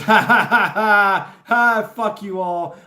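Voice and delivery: loud scornful laughing, then a slow curse; mocking laugh. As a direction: laugh at them all, then spit the curse slowly. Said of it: "he laughs and goes".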